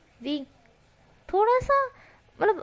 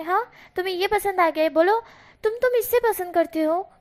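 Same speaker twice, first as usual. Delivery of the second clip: angry demands; 5 semitones higher than usual. Acted. Friend accusing Wing of liking him, high and heated. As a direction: push him for answers, heated. Wang ji angrily questioning Wing.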